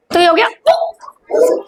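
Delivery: slow, sung-out उ; drawn-out teaching voice. Shown as a demonstration. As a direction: stretch the vowel slowly for the class. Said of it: "धीरे से रो रहा है".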